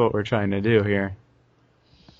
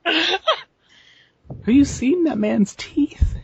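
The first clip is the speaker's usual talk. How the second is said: whispering; much slower than usual. Real, not acted. Conspiratorial joke about teeth.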